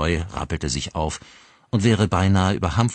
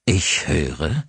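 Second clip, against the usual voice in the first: menacing repeat. Acted. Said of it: "wiederholte er".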